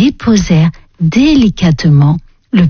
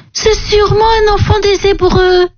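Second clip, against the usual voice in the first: princess voice; 11 semitones higher than usual. Acted. Princess finds the baby.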